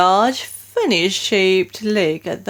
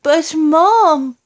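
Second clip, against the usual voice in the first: maid; 9 semitones higher, 5 dB louder, much slower than usual. A narrator's reading. Maid urging the Queen.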